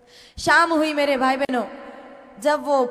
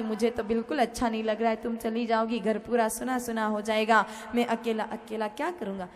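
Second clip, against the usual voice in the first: softer mock-sad whine; put-on long face; 4 dB quieter than usual. Husband at the station faking sorrow to his wife, mock-sad. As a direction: pretend to be heartbroken. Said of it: "पूरा मुंह उतार लिया जानबूझ के".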